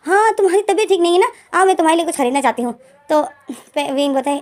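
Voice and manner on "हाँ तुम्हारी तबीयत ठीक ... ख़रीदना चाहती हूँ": eager teasing. Retold or imitated. Pem teasing the upset Wing.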